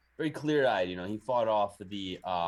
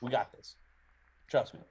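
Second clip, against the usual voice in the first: raised, insistent pleading; possessed; 4 semitones higher, faster than usual. Acted. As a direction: coax them along, insistent. Possessed Lucian urging the party.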